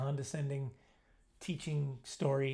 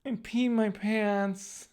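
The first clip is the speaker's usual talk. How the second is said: sheepish confession; 6 semitones higher, 4 dB louder, much slower than usual. Retold or imitated. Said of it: "all I can say is".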